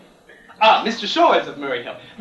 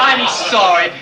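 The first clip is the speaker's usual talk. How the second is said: laughing through a fake apology; giggling insincere sorry; mock apology; 4 dB louder than usual. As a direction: apologise on air, barely holding it together.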